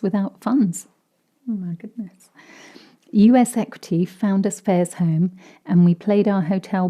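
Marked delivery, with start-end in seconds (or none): none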